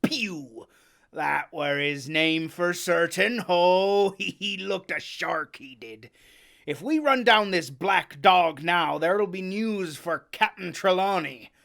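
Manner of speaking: loud, eager sailor; excited. Acted. Silver excited about catching Black Dog, loud. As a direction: press on keenly. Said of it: "now quite excited".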